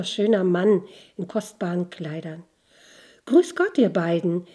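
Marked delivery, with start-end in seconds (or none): 3.3-4.5 calling out. Acted. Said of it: "rief er ihnen zu".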